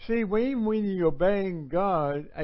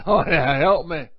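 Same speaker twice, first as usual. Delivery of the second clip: instant prayer; 9 dB louder than usual. Acted. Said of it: "come up with an instant".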